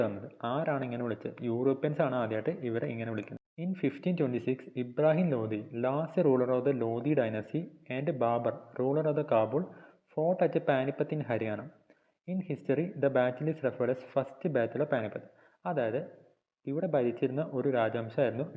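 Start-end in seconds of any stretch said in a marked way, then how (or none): 3.6-15.2 reads English notes slowly, word by word, for copying; slow dictation reading. Shown as a demonstration. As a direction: dictate each phrase slowly so students can write. (പതുക്കെ dictation വായന)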